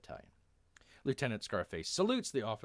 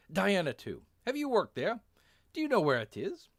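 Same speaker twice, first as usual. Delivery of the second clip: higher, put-on English-German accent; hammed-up foreign officer's accent; 10 semitones higher, 8 dB louder than usual. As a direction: question a prisoner in a mixed English and German accent. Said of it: "how can you do an English accent in German".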